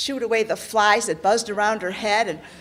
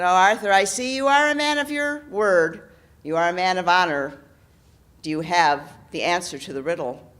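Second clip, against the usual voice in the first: loud, demanding knight; lightly voiced knight questioning the king; menacing knight; 3 semitones lower, 6 dB louder than usual. Knight character voice.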